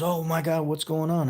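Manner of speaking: high-pitched, lightly acted shock; a joke bartender's alarmed exclamation; mock alarm. Bartender finds son dead in joke.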